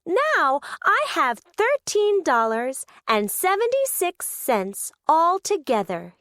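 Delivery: Rolly counting coins, hooting with joy; happy hoot. Acted. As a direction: savour each number with glee. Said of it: "he hooted".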